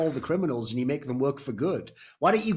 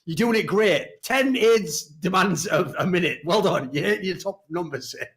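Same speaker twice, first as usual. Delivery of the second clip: mock coach praise; 4 semitones higher, 4 dB louder than usual. Praising troll squad mock.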